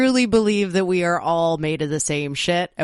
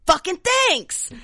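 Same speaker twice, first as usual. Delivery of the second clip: high, slow, begrudging; imitating a stunned stranger's grudging thanks; mock grudging thanks; 5 dB louder, slower than usual. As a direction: drag out a reluctant thank-you, pitched up. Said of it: "she's like".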